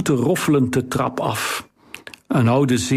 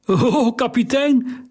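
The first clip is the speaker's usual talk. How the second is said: high, slow and shaky with shock; a stunned old sailor calling out, voice wavering; quavering call of disbelief; unsteady voice; 10 semitones higher, slower than usual. A narrator's reading. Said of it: "riep hij met onvaste stem".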